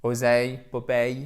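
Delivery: "Oseille, Popeye" each ending on a clear glide; "Oseille, Popeye" set apart, endings sounded out; examples of the sound. Shown as a demonstration. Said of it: "c'est équivalent au A".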